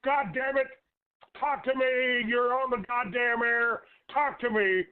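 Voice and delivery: high, strained angry shouting; furious yelling. Real, not acted. Talk show host screaming at a silent caller on air, furious shout. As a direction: yell at the caller to finally speak. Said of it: "what are you screaming at me for".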